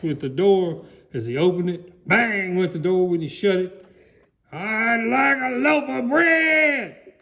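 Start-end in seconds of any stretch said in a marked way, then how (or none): 4.5-7.1 higher, slow, lightly booming voice; booming Mister Noisy. Acted. A hint of Mister Noisy booming at Missus Crumb. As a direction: boom the order at the shopkeeper. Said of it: "boomed Mister Noisy".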